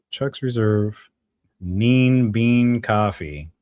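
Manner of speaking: slow, savoured product-name announcement; drawn-out sponsor plug. Acted. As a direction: stretch the brand name out very slowly.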